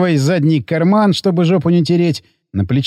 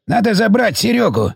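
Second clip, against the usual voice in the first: insistent plea; 5 semitones higher than usual. Acted. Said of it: "не унимался Гейгер".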